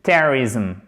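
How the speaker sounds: "Terrorism" as TER-rizm with a "zum" ending; reduced pronunciation. Shown as a demonstration. Teacher putting the word parts together, reduced "Terrorism". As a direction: stress TER in "Terrorism", close on a buzzed zum. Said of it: "On entend cette partie du mot et cette partie".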